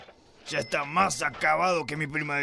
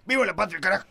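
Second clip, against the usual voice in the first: grito patriótico; 4 semitones higher, 4 dB louder, much faster than usual. Acted. Patriotic cry ending a rant.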